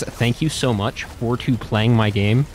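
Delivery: slow Mario impression. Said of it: "And he says".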